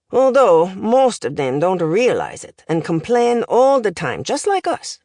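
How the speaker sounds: lightly voiced accented professor, lively lilt; language professor. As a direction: deliver it like a pedantic foreign tutor.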